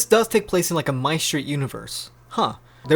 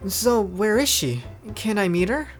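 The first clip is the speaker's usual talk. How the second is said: high, eager question; higher young character voice; curious Noi; 5 semitones higher than usual. Acted. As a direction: pitch it up, curious.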